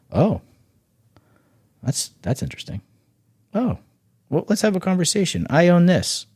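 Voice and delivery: light up like a buyer who smells a deal; impressed buyer. Retold or imitated.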